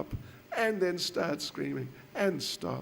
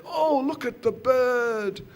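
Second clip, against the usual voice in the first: higher, lightly excited ooh-look voice; coaxing a baby; 7 semitones higher, 4 dB louder than usual. Acted. Ladies distracting a howling child, brightly coaxing. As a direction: draw the child's attention away. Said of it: "they tried all their tricks".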